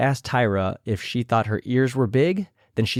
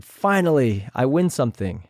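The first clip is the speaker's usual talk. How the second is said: imitating Jujubee; 2 semitones higher than usual. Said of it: "in Jujubee's words".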